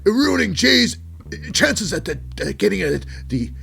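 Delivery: high, loud sarcastic taunt; Jimmy sarcastic. Retold or imitated. Jimmy taunting Jey about the title, high loud sarcastic. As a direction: needle him sarcastically. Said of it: "he's like".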